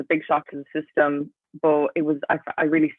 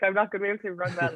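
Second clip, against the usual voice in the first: higher, fast, mildly mock-panicked; retold stressed panic; 4 semitones higher, 3 dB quieter, faster than usual. Athlete recalling pre-race coffee panic, mock stressed. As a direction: quickly fret it out, playing up the worry. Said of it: "so stressed".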